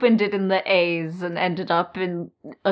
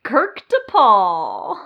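slow, drawn-out name reveal; grand announcement; 4 dB louder, much slower than usual. Pretend. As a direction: savour the name slowly. Grand self-naming of new name.

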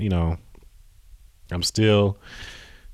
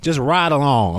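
yelling; 3 semitones higher, 3 dB louder than usual. Real, not acted. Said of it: "Why am I yelling at y'all?".

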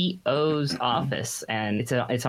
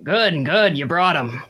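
gruff colonel; 3 semitones higher, 5 dB louder than usual. Acted. GM voices the colonel.

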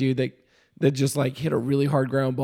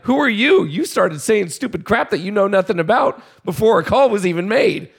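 angry yelling back; 4 semitones higher than usual. Retold or imitated. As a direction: fire it back at him, furious. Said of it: "I'm yelling back at him".

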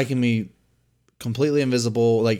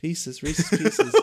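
drawled punchline; 4 semitones higher, much slower than usual. Pretend.

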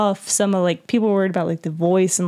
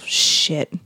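Geralt impression; 4 semitones lower than usual. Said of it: "you just hear Geralt go".

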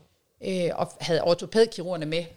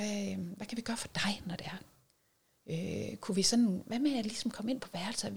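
hushed coaxing; 3 semitones higher, 5 dB quieter than usual. Retold or imitated. Soothing her screaming daughter.

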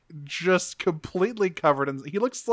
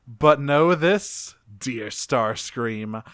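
mock Megatron; 2 semitones lower, slower than usual. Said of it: "Megatron says".

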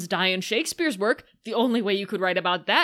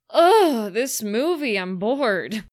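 mock groan of boredom; 4 dB louder, slower than usual. Critic groaning at the movie, hammed-up bored moan. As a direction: moan about the dull film. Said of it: "And I go".

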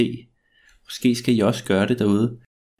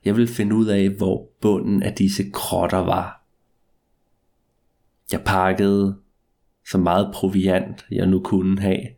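story narration. A narrator's reading. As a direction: draw out each line like a ghost story. Spooky first-person tale after intro.

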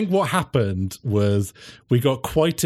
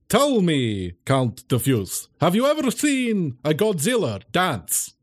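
tag vampire host; slower than usual. Acted. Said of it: "I think I'm like".

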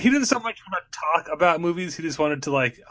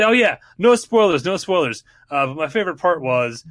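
mock careless spoiler; 3 semitones higher, 3 dB louder than usual. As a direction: toss off no spoilers then spill it anyway. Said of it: "Don't say".

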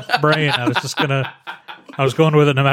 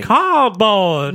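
louder, slightly higher call; a bit louder; 5 semitones higher than usual. Acted. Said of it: "I can't get you to yell anything".

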